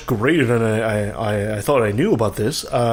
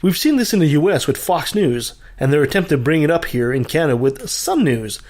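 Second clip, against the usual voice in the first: scripted opinion piece, steady and pointed; editorial rant. Acted. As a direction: read it like a radio editorial.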